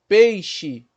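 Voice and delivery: "Peixe" em dois tempos, PEI forte; separando sílabas. Shown as a demonstration. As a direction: bata as duas sílabas de "Peixe". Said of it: "quantos momentos sonoros aí nessa palavra?". ("Peixe" silabado, pei-xe)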